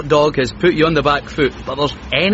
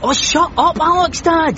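annoyed; 12 semitones higher than usual. Acted. Snaps at his dad.

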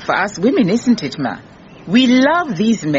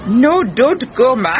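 higher, drawn-out urgent appeal; urgent pleading; 4 semitones higher, slower than usual. Acted. Visitor stopping the cook walking off, urgent pleading. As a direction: stop them from leaving, slowly stressed.

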